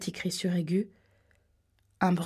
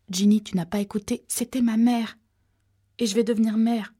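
louder, urgent pleading; insistent plea; 3 semitones higher, 5 dB louder than usual. Acted. Pregnant girl pleading about her dead mother, louder and insistent. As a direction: plead to be heard, raising the voice.

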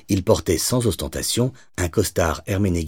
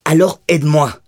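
cries out much higher and louder; shout; 11 semitones higher, 7 dB louder than usual. Acted. Cop to gangster pulling free, shouted plea. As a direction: break free and yell it at him. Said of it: "cria-t-elle".

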